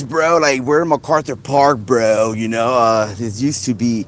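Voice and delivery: mock American bro accent, lightly done; a hint of a put-on American dude voice. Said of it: "Can I do an American accent?".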